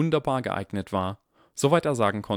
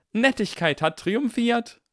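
much higher and louder, slow victory yell; screaming; 13 semitones higher, 5 dB louder, slower than usual. Acted. General Granger shouting victory to her troops. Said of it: "schrie General Granger".

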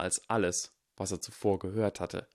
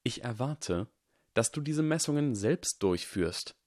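calm; 5 semitones higher than usual. Acted. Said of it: "sagte die Figur in den Schatten ruhig".

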